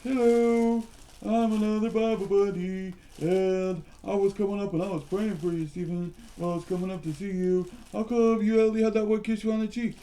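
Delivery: lightly voiced Bible buddy; new puppet voice. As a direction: voice a second toy, barely changed. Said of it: "what kind of voice we have for this one".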